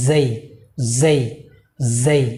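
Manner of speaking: জেই drawn into a gliding ey vowel; correct pronunciation. Shown as a demonstration. Teacher modelling the correct letter name, long gliding vowel. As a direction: stretch জেই, gliding toward i. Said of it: "আজকে থেকে কি বলবো".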